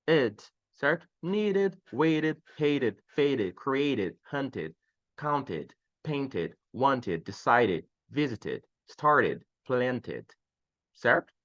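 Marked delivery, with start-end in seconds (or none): 0.1-0.4 "ed" as its own syllable, vowel plus d; ED sound. Shown as a demonstration. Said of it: "Você vai falar com som de ed". 1.2-10.3 "Needed, waited, hated" each with a full extra "ed" syllable; ED ending. Shown as a demonstration. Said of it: "Você vai falar com som de ed".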